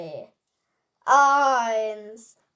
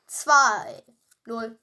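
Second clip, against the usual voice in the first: epic countdown; 5 dB louder, much slower than usual. Pretend. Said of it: "epischer Countdown".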